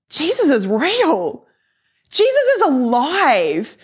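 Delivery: high, drawn-out awed proclamation; exultant realisation. Retold or imitated. Speaker realises her faith is true, exultant retelling. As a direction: proclaim it slowly with pitch swooping up, then falling.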